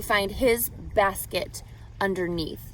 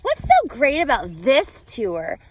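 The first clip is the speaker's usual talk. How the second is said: put-on eager kids' question; 3 semitones higher, 6 dB louder than usual. Luke and Layla quizzing their dad, eager and loud. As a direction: ask it like an excited kid. Children ask Dad in story.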